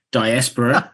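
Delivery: "diaspora" said dy-AS-puh-ruh; learned pronunciation. Shown as a demonstration. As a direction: stress the AS in "diaspora", short unstressed ending. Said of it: "learned how to use the word".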